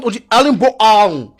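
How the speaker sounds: "Erling Bo Haaland" in exaggerated Norwegian; mock Norwegian accent. Norwegians correcting the striker's name, mock Norwegian accent. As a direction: imitate a Norwegian drawing out "Haaland". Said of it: "Si les Norvégiens".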